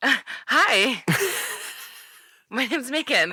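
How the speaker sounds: airy, breath-heavy delivery. Answering what she would say to Bella in Twilight: breathy delivery. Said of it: "I like the breathing".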